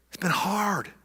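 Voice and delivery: a breathy whispered confession. Retold or imitated. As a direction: whisper it like a private prayer. Whispered line inside imagined prayer.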